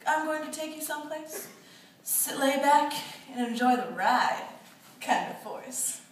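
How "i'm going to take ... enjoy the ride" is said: seductive invitation. Retold or imitated. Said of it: "More like a".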